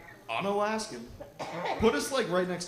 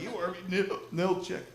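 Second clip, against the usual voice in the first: hiccup; 3 semitones higher than usual. Retold or imitated. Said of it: "sounds better with, like, a hiccup".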